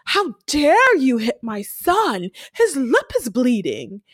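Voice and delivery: lightly hammed-up fake outrage; mock-indignant fake victim, lightly done; Jim Carrey liar mode. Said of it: "full liar, Jim Carrey mode".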